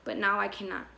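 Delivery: quiet spoken-word close, dropping away; hushed poem ending. Acted. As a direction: let the poem fade phrase by phrase. Poem's closing lines.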